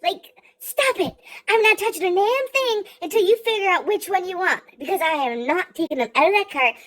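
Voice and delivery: freaking out. Retold or imitated. Granddaughter ranting at grandma in Dollar Tree, exasperated. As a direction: rant at her, hammering each "that". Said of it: "I'm freaking out the whole time".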